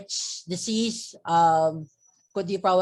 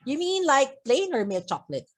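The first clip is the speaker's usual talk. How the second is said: mock-sarcastic lilt, "mean" pitched up high; 6 semitones higher than usual. Man mocking the landlady's question, sarcastic. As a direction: toss it off with a satirical bite, quick. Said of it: "He's trying to sound satirical, comic, or sarcastic".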